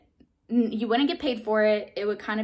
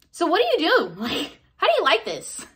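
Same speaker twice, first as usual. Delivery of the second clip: chatty self; 7 semitones higher, 5 dB louder than usual. Retold or imitated. Acting her bold chat.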